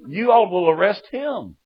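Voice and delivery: hammed-up, high-pitched protest; mock panic. Jailed son telling the sheriff about dad, mock panic. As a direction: plead loudly in comic dread, stretching the last words.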